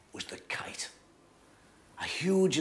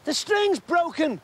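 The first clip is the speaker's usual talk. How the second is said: high, louder, slow alarmed cry; cried out; 12 semitones higher, 6 dB louder, slower than usual. A narrator's reading. Kitty seeing the kite fall, crying out. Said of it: "Kitty Bates cried".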